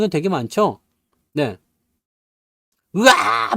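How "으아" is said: higher, drawn-out mock scream; hammed-up "waaah"; mock yell. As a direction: imitate someone yelling wildly. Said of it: "막 소리 지르면서".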